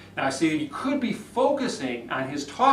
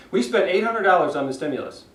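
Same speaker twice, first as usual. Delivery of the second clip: a slowed version that stays monotone; slowed-down flat read; 3 semitones higher, faster than usual. Shown as a demonstration. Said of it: "Even if he slowed down".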